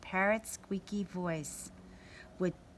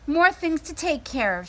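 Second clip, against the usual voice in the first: grumbled; 7 semitones higher, 7 dB louder than usual. A narrator's reading. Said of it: "she grumbled".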